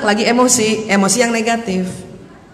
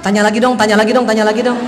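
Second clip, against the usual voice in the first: secretly pleading wife; 3 semitones lower, faster than usual. Acted. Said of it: "Tapi dalam hati kita".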